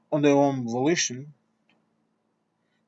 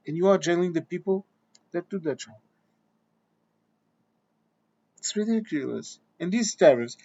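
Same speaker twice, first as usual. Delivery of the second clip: rant. Real, not acted. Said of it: "I did rant a bit".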